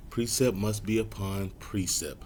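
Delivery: slow, deliberate recital; measured preacher's pace. Shown as a demonstration. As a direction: let every word sink in. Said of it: "Just wanna say things slower now".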